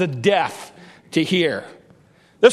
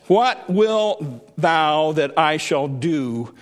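Jesus speaking; 5 semitones lower, slower than usual. Acted. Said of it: "And he says".

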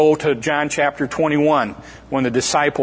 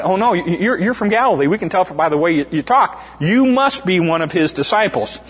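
higher, pointed accusing voice; a bystander catching Peter out; mock accuser; 4 semitones higher than usual.

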